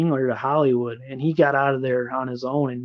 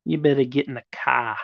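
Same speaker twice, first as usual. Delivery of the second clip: light Boston accent, "cah" with no r; a hint of Boston, dropping the r. Shown as a demonstration. Streamer showing off a light Boston accent. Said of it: "That's bad".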